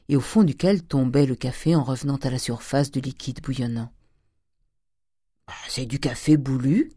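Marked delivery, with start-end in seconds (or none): 5.5-6.9 a hint of a rustic maidservant; lightly voiced servant. A narrator's reading. Nanon the servant naming her boiled coffee, lightly voiced.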